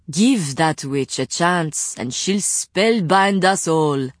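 slow, sneering villain; drawn-out sarcastic jab. Acted. Gerbert sneers at the witch.

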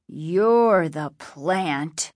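a hint of menacing accusation, dragged out; accusing. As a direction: captive father turns the charge back, menacing.

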